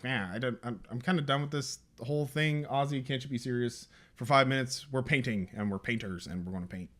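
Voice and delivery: fed-up grumble. Retold or imitated. Fed-up kid scolding Ozzy.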